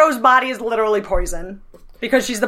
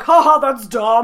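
mocking laugh; slower than usual. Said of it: "I was just like".

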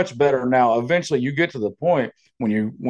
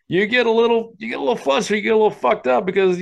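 put-on flustered kid voice; 8 semitones higher, faster than usual. Acting out a flustered liar.

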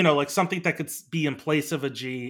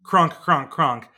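goose honk; 3 dB louder, much slower than usual. Shown as a demonstration. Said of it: "it's Goose Voice".

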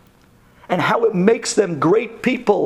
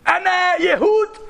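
higher, slow mock yell in Arabic; 11 semitones higher, slower than usual. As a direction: call out the taunt in Arabic. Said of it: "starts screaming to the guy in Arabic".

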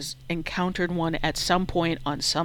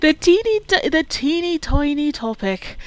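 tongue twister try; 9 semitones higher, 5 dB louder than usual. Shown as a demonstration. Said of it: "Say that three times fast".

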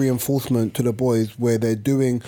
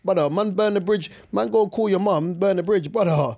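put-on higher, cocky teenage kid; defiant kid voice; 4 semitones higher than usual. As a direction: brush off the threat like a cheeky kid.

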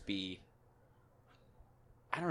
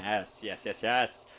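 repetitive, mannered actor impression; lightly imitated movie-star tic; Jeff Goldblum; much slower than usual. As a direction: play an eccentric star agreeing. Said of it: "Jeff Goldblum".

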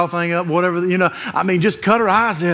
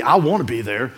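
mock self-pity; 3 semitones lower than usual. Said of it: "That's that self-pity".

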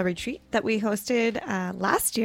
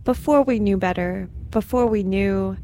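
poetry reading. Acted. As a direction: give each image weight, unhurried. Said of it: "the genre is poetry".

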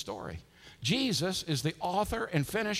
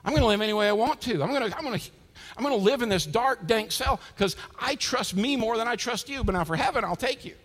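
mock bargaining; 5 semitones higher, 4 dB louder than usual. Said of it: "we're in a sale".

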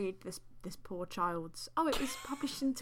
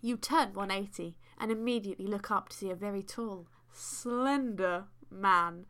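measured, deliberate storytelling read; story narration. A narrator's reading. Host reads fan fiction to co-host, story narration. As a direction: read it like an unfolding tale.

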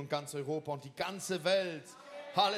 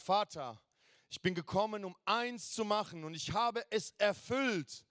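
Jesus praying; 5 semitones higher than usual. Retold or imitated. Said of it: "und betet und sagt".

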